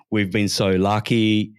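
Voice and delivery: slow, syrupy, patronizing politician voice; mocking the premier. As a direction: drag it out like a smug condescending politician. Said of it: "so patronizingly and condescendingly".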